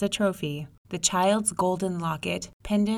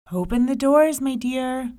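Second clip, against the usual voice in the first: calling sweetly; 6 semitones higher, 7 dB louder than usual. Acted. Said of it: "she called in through the window".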